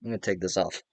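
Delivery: muffled through a mask; inside a rubber mask. Real, not acted. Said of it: "It's also very hot in this mask".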